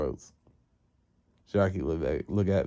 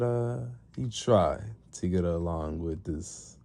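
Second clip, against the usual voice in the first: villain master; slower than usual. Retold or imitated. Master sets his condition.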